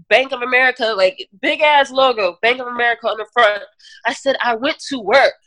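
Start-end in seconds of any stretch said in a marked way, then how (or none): 4.4-5.3 retold scream. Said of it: "I'm screaming and just screaming".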